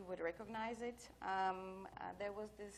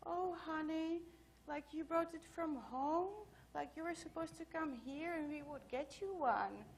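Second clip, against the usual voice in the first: put-on pitying old lady voice, higher throughout; even sadder old lady; 7 semitones higher than usual. Receptionist pities him for bringing a badge from home, higher pitying voice. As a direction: gently pity a clueless newcomer, pitched up. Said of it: "got even more sad".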